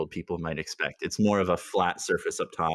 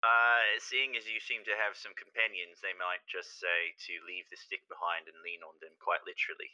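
nod and smile through the rules; lightly voiced, over-friendly official; overly friendly; 5 dB quieter than usual. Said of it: "nodding and smiling as he says it ... overly friendly".

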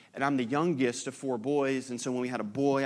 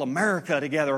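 louder, joyful shout; a proud, glad holler of America; cheerful yell; 6 dB louder, faster than usual. Retold or imitated. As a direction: yell it out together like a toast. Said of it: "you just yell".

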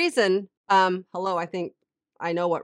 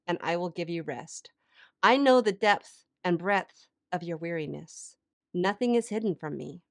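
softer, settled reading aloud; devotional reading; 4 dB quieter than usual. Acted. Woman reading God's invitation to the weary, soft devotional voice. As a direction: read it gently as God's reassurance.

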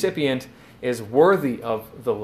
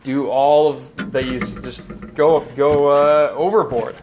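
louder, slowing as it builds; emphatic; 4 dB louder than usual. Retold or imitated. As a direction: push it, enthusiastic and over the top. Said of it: "He's just very emphatic".

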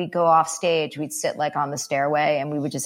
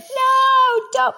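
loud protest; 5 dB louder than usual. Retold or imitated. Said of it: "I get like".

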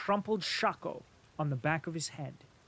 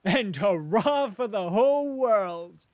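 laughing cry; 5 semitones higher, 10 dB louder than usual. A narrator's reading. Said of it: "cried laughing".

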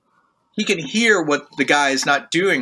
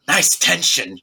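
dry teacher remark; 2 semitones higher, slower than usual. Retold or imitated. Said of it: "leader looks over and goes".

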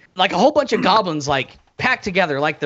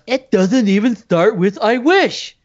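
mock goblin voice; 4 semitones higher, slower than usual. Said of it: "another one goes".

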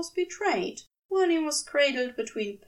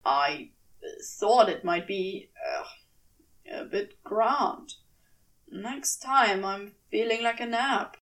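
lower, stumbling demon voice; low halting demon; 4 semitones lower than usual. Acted. Demon stammering his wish to his angel. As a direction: trip over the words, flustered.

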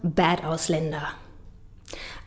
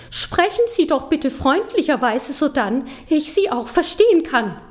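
put-on high, prim, over-polite old lady voice; mock a refined elderly lady; 6 semitones higher than usual. Performer imitating a posh old lady on the train, high and prissy. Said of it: "Sie sagt in gepflegtem Deutsch".

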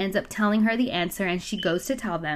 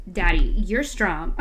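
coaxing flattery; 2 semitones lower, 3 dB louder, slower than usual. Retold or imitated. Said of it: "how we do when we trying to get what we want from our man".

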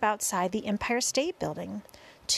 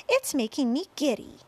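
raised-pitch plaintive call; 5 semitones higher than usual. A narrator's reading. Miss Spider feels giddy on the peach, plaintive call. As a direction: complain aloud from up high. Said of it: "Miss Spider called out".

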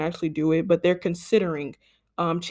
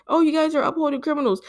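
higher, smug mock voice; mocking pundit; 7 semitones higher, faster than usual. Mocking talking-point pundits, smug voice. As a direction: sneer it like a talking head. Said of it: "people are like".

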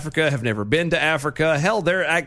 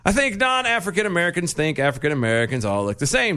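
lightly voiced quote; put-on quoting voice; 3 semitones higher than usual. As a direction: read it out in character. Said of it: "but that's the voice".

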